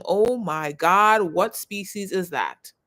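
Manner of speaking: slow, drawn-out astonished wonder; slow amazement. Pretend. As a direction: marvel at a strange new flower. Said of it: "and then boom".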